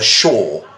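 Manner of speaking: "sure" rhyming with shore; British pronunciation. Shown as a demonstration. Teacher citing John Oliver as example, British pronunciation. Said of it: "the British sure word".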